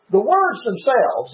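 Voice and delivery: "words" stressed, falling through "themselves"; emphatic stress on "words themselves". Real, not acted. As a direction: lean on "the words themselves" to make the point. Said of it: "I want to emphasize the words".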